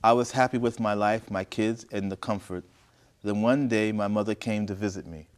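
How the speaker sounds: deliberate, projected story reading; story narration. A narrator's reading. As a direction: read each phrase out clearly, pausing between. Reads the story aloud.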